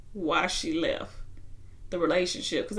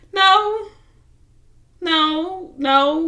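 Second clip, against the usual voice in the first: sharp high emphatic no, raised voice; 8 semitones higher, 7 dB louder, much slower than usual. Retold or imitated. Retelling the couple's argument, a loud high no. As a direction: shut the idea down hard. Quoting a flat refusal.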